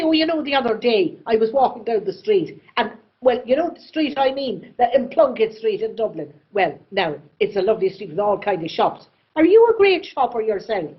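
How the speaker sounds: chatty Irish storyteller, quick to start; Irish writer's running chatter; Maeve Binchy. Retold or imitated. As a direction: ramble brightly from thought to thought, Irish accent. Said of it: "and she'd say".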